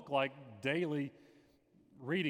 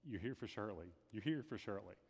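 hushed, softer, falling gently at the end; soft whisper of the Lord; 3 semitones lower, 8 dB quieter than usual. Retold or imitated. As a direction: pass on a quiet inner whisper, not a real whisper. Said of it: "I heard the Lord whisper to me".

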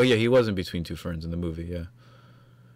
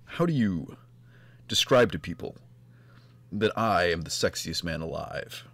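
impression of John Hamm impression; 3 semitones lower than usual. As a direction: play a self-adoring cool guy pitching cigarettes. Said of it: "That was my impression of, of a John Hamm impression".

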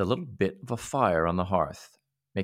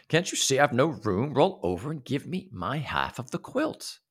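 a touch of a demanding little man; pushy little man; 5 semitones higher than usual. Acted. Little man demanding room in bed, mildly cross. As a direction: insist on room and the quilt. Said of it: "the little man was shouting".

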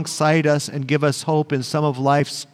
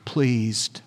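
gentle voice of God; much slower than usual. Acted. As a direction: let each word fall slowly, like a father's blessing. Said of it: "he heard a voice from heaven saying".

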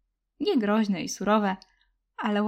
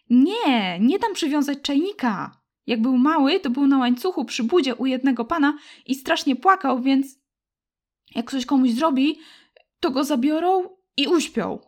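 put-on loud, higher, upset child pleading; upset girl; 4 semitones higher, 5 dB louder than usual. Girl defends her dog to the boy, loud and upset. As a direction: fight for the dog in a rush of worry.

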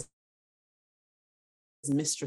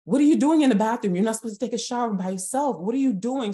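louder, higher, fast retold scolding; screaming mother; 7 semitones higher, 7 dB louder, faster than usual. Mom barging into the bathroom at her child, screaming. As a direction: burst in demanding answers, high and quick. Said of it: "she's screaming at me".

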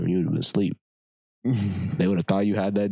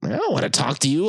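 blunt quote; 6 semitones higher than usual. Retold or imitated. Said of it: "I'd just be like".

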